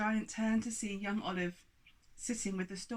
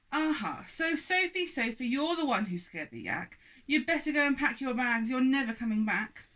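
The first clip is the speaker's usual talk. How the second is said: scolding giant; 5 semitones higher, 5 dB louder than usual. Acted. Giant banishes sofa.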